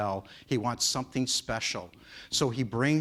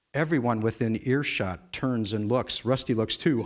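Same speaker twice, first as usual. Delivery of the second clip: usual speaking voice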